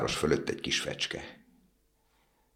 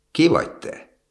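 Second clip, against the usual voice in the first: much higher, louder startled ask; startled question; 12 semitones higher, 5 dB louder than usual. A narrator's reading. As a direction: jump at seeing the weeping statue. Swallow startled by the statue.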